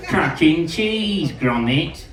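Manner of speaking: bingo caller. Acted. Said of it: "That's why I sound like this".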